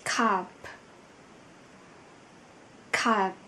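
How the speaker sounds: carp ending in a strong aspirated p; final consonant demo. Shown as a demonstration. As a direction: say carp, pushing out the air on the end. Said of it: "Ví dụ như chúng ta có từ". (phát âm carp đẩy hơi mạnh ở cuối)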